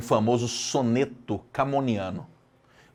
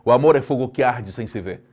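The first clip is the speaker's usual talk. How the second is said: declaimed, all run together; 3 dB louder than usual. Shown as a demonstration. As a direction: recite the line as one linked word. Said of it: "eu tenho que declamar".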